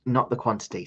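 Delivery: talking through hiccups; hiccuping between words. Real, not acted. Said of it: "I've given myself the hiccups".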